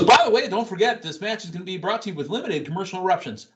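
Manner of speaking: mock Corey Graves. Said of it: "Corey Graves goes".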